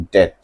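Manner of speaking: डेट said as det with no b sound; silent b. Shown as a demonstration. Teacher shows students डेट with a silent b. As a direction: model डेट as plain det, no b. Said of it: "इसमें बी silent होता है".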